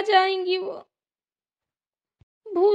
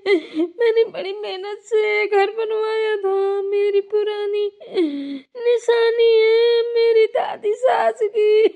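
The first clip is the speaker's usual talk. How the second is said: crying. Acted. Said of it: "कैसे रो रही है।".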